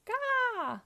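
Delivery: put-on high, drawn-out baby "gah"; hammed-up exhausted baby cry; weak baby gasp. A narrator's reading. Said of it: "gasped Baby Pac-Man weakly".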